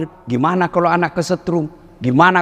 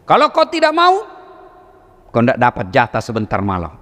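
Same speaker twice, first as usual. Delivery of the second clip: sulking wife threat; 4 semitones lower than usual. Retold or imitated. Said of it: "kata Hawa".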